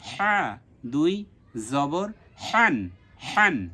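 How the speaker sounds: slow drill, হা and হান with strong pharyngeal h; mid-throat ha. Shown as a demonstration. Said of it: "মাঝখান থেকে উচ্চারণ হবে".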